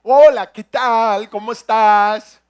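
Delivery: loud, slow, exaggerated open-mouth voice; mock the friend's weird mouth-wide talk; imitating an open-mouthed way of talking. Imitating a friend's friend to the congregation, loud exaggerated open mouth. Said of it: "Hablaba así".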